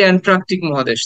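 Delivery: "অ্যান্ট্রাকটিক" said with "tr" in the middle; "অ্যান্ট্রাকটিক" with an added r after t; common mispronunciation. Shown as a demonstration. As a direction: show the habitual mistake, "aen-TRAK-tik" for "অ্যান্ট্রাকটিক". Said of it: "আমরা বলি".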